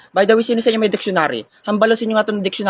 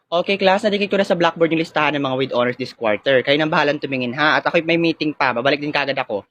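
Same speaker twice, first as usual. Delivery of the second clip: teacher; 5 semitones lower than usual. Acted. Teacher opens the pronunciation quiz for the class, low formal voice. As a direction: address the class in a low, measured voice. Plays the teacher announcing honors.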